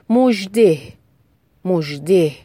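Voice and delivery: مژده said carefully with a clear voiced zh; teacher modelling the ژ in مژده; careful model pronunciation. Shown as a demonstration. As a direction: enunciate the zh inside مژده, pausing between repeats. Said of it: "تلفظ صحیح حرف ژ".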